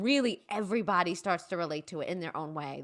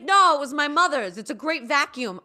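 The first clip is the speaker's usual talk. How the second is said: indignant dad; 7 semitones higher, 8 dB louder than usual. Retold or imitated. Dad indignantly defends old vacuum.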